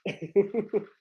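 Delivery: lightly voiced Southern ex-player pundit; casual sports-panel impression, mildly aggrieved; Charles Barkley. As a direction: grumble to your co-host like a TV basketball analyst. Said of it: "Charles Barkley gonna get out of here".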